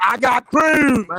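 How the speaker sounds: drawn-out, emphatic mock boast; mock declaration. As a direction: throw their pick back at them, stretched out slowly. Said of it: "went on a limb and said".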